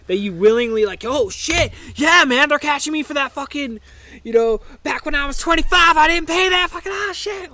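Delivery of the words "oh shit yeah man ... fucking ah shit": much higher dopey put-on voice; mock gullible guy. Guy mocking a gullible scam victim, much higher dopey voice. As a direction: play the sucker who just got caught.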